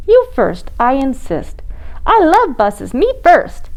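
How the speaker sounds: high, squeaky little penguin; penguin kid voice. Acted. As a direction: play a polite little penguin.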